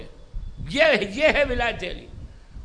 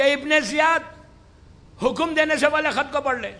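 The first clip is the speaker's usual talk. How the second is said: retold shout from above, raised voice; calling out; 2 semitones higher, 3 dB louder than usual. Postman hails Ibn Ziyad from above, calling out. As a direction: hail him from over the door. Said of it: "اس نے پکار کے کہا".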